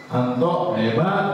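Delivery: slow drawn-out call of praise. Acted. Father calls praise toward the hill. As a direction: call it slowly across the hill. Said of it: "Terus bapaknya bilang".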